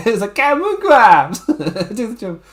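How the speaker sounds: hammed-up wrestler character. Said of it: "I got into the character too much".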